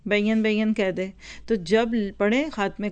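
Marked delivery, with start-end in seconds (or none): 0.1-0.7 "बैन बैन" stretched into two syllables, bai-yan; "बैन बैन" misread with an added y glide. Shown as a demonstration. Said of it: "इसको पढ़ने में कई गलतियाँ करेंगे".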